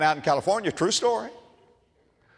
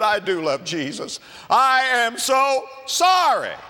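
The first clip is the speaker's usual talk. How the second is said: embarrassed apology; 9 semitones higher, 3 dB louder, slower than usual. Acted. Caught out, the man apologizes.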